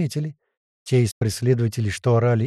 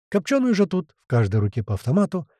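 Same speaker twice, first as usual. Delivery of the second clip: ordinary delivery, nothing marked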